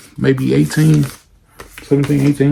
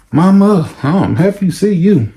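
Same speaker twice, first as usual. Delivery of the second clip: higher, gushing relief; relieved greeting; 6 semitones higher than usual. Retold or imitated. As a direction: glad to be home safe. Relieved son greeting mother.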